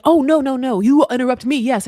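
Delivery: high, loud mocking outrage at being interrupted; mock indignant scolding. Imitating the man scolding her for interrupting, high and loud. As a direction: ham up the offended man.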